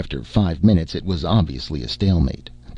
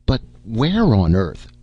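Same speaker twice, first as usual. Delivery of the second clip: bewildered; 4 semitones higher, slower than usual. Acted.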